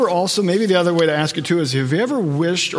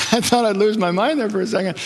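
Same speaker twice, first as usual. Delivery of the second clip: startled relief; 6 semitones higher than usual. Retold or imitated. Startled reaction retold.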